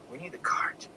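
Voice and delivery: soft whispered reassurance; gentle. A narrator's reading. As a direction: say it gently, hushed. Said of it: "he said gently".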